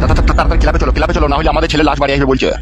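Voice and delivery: stuttering, urgent plea; panicked stammer. Acted. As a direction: trip over the first word while urging haste. Father urges rush to club.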